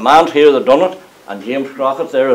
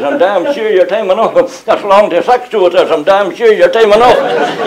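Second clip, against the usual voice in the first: a higher, lightly voiced night watchman; watchman's catchphrase; 5 semitones higher than usual. Night watchman greets the latecomer, higher mimicked voice. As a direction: imitate the watchman's greeting, pitched up.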